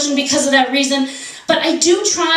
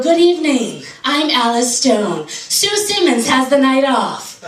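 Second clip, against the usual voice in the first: measured mock newscaster greeting; news anchor; slower than usual. Anchor opening the evening news, mock newscaster delivery. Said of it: "when you watch the news".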